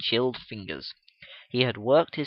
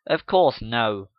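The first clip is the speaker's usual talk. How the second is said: indignant; 3 semitones lower, 5 dB louder, slower than usual. Acted. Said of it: "with an indignant look".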